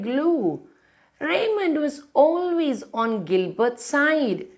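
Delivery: lively storybook read-aloud; reading to children. A narrator's reading. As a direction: read it like a bedtime picture book. Reads picture book aloud.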